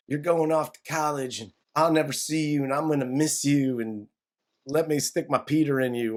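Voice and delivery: a touch of backwoods hillbilly twang; hillbilly accent. Acted. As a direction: put on a mild mock hillbilly accent. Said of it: "keep doing the hillbilly accent".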